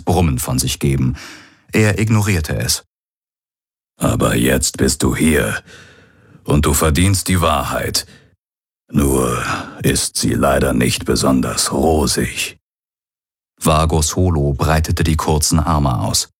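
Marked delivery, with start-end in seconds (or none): 4.0-12.6 lightly voiced old pirate, a touch lower and heavier; old pirate's recorded message. Hologram of the old pirate addressing his son, lightly voiced. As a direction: speak as the aging pirate father leaving a last message.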